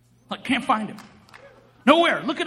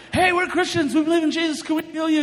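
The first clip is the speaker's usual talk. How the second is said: high, eager pitch to a stranger; acted-out over-keen introduction; eager street evangelist; 3 semitones higher than usual. Re-enacts accosting the startled stranger.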